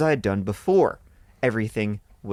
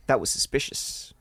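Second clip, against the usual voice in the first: hushed; 5 dB quieter than usual. A narrator's reading. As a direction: say it quietly, like a secret. First take before whispered echo.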